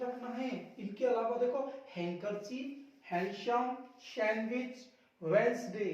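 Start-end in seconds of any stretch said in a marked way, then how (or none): 5.2-5.9 वेडनेसडे said as "Wensday"; two syllables, "Wens-day", for वेडनेसडे; silent D. Shown as a demonstration. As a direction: say वेडनेसडे without the first D. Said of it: "यहाँ डी है ना silent".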